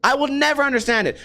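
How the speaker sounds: high-pitched, incredulous rant; exasperated rant. Real, not acted. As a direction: demand an answer from them, baffled and fed up. Ranting at noisy car drivers.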